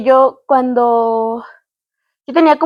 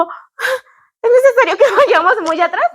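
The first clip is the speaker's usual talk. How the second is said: mock whiny plea; 9 semitones higher than usual. Daughter pleading with mom to stay.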